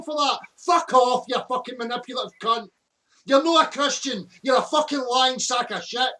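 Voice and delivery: furious shouted insults; swearing tirade. Real, not acted. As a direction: yell abuse in real rage. Angry swearing rant continues.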